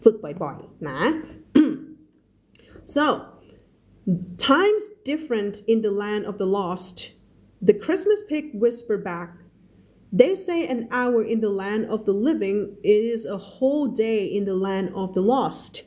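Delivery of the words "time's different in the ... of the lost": slow, careful read-aloud of a novel; story reading. Acted. Teacher reading a story to her students, slow and careful.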